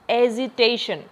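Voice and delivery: एजिटेशन with the weight on टे; stress on TAY. Shown as a demonstration. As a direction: lean on the टे of एजिटेशन. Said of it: "टेई जो syllable है उसके ऊपर".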